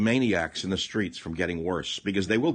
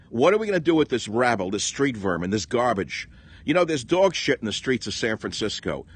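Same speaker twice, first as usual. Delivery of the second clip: 1 angry rant; 3 semitones higher, 4 dB louder than usual. Real, not acted. Escalating rant against protesters.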